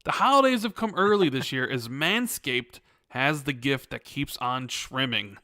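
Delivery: hearty ho-ho-ho, then sponsor patter; jolly holiday promo read; festive ad read. Acted. Performs the holiday sponsor intro.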